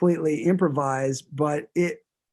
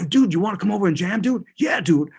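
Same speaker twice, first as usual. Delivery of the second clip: put-on Boston accent; 4 semitones higher, 5 dB louder, faster than usual. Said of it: "he's like".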